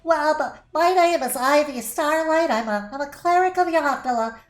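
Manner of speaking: halfling cleric voice. Acted. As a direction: greet the party brightly in a high little voice. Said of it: "so it's always".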